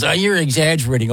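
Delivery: high squeaky chick voice; peeping baby chick. Retold or imitated. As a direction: peep it like a tiny chick. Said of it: "that was a good chick impression".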